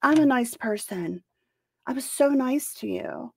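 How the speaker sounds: high-pitched mocking whine; high, exaggerated pleading imitation; mock self-proclaimed nice person. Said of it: "have to tell people".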